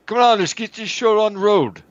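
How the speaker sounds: rally yourself before launch; hyped pilot shout. Acted. Pilot cheering himself on.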